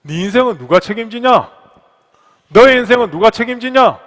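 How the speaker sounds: building to a loud, high demand; forceful challenge. Acted. God challenging the pastor over his life, mounting forceful demand. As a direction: drive the question home harder each time. Repeats God's question with rising force.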